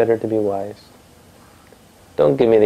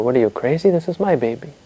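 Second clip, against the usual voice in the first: mildly indignant woman, rising higher at the end; mock indignant yell; 4 semitones higher than usual. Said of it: "they scream and they yell".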